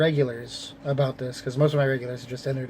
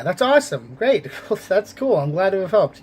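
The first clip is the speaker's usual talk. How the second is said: excited; 5 semitones higher, 4 dB louder than usual. Retold or imitated. Retold excited reaction.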